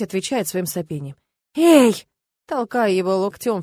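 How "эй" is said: sudden loud "hey", higher; sharp call. Acted. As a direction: jab it out to wake him. Shoving sleeping man awake.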